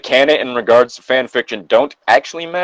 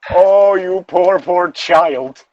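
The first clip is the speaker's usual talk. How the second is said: slow, hammed-up pity; mock pity; 5 semitones higher, much slower than usual. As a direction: drag out the sympathy like a stage aunt. Mock pity for fic characters.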